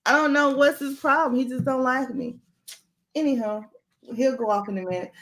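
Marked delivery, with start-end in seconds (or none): 0.1-2.4 higher, slowed, hammed-up whining protest; mock exasperated protest. Host blaming her misbehaving mouth to her team, mock sulky protest. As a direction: plead your innocence in a playful sulk. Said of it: "I'll be like".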